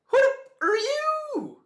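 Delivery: hammed-up outraged yell at a stranger; mock furious Kid yell. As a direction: scream it like an enraged pirate captain. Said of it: "Kid just straight out like".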